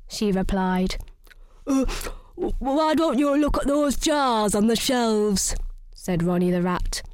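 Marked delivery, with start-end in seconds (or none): 1.7-5.6 lightly voiced hesitant rat. Ronnie the Rat points Missus Mouse to the jars, hesitant. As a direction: stammer it like a nervous rat.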